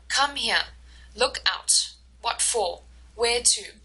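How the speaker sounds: both words stressed equally, as in "Come here"; two even strong beats, like "Look out". Shown as a demonstration. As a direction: give "Where to" two equal stresses, neither word weak. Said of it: "is equal across".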